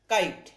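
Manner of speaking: काइट with a full long eye sound; long i in kite. Shown as a demonstration. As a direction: glide the vowel in काइट. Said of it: "long है". (लंबी ध्वनि में काइट)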